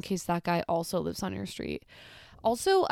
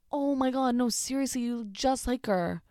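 higher, lightly mocked insistence; insistent imitation; 4 semitones higher than usual. Strangers insisting she looks like someone, mock insistent. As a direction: press the point in a raised pitch. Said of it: "they're so aggressive about it".

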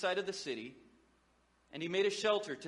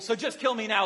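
laughing mock plea; 4 semitones higher, 6 dB louder than usual. Preacher re-quotes Jonah laughing.

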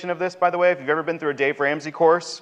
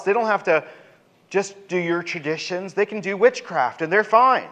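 complaining; 3 semitones higher than usual. Acted. People complaining back to God.

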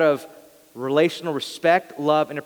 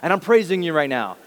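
higher, a mock self-congratulating singer; lightly mock the worshipper who's really praising himself; self-absorbed worshipper; 5 semitones higher, 3 dB louder than usual. Pastor mocks a churchgoer singing to himself, hammed-up pride. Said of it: "We're like".

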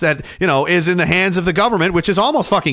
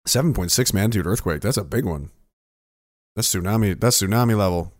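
hushed awe; 11 semitones lower, 6 dB quieter than usual. Real, not acted. Awed by big quake news.

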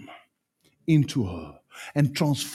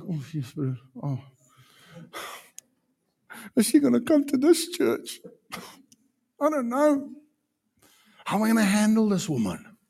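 high, worried muttering to herself; imitated inner dismay; 7 semitones higher than usual. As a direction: fret about the newcomer. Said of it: "No, it was like".

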